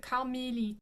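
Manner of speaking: "Carmélite" with é closed toward EE; closed accent aigu. Shown as a demonstration. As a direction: say French "Carmélite", tight middle vowel. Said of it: "it closes at".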